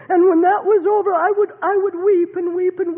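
emotion breaking through; tearful outburst; crying. Real, not acted. Recalling weeping over hurts.

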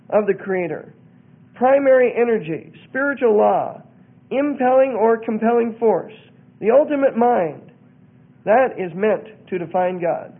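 emphatic, measured reading of a creed; reading aloud. Real, not acted. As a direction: read out the doctrine in firm, separate phrases.

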